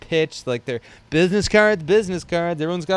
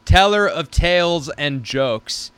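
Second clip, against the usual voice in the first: lightly pompous reading of his pitch; grandiose announcer. Acted. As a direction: read it like a mock-grand herald. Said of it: "This is what I wrote".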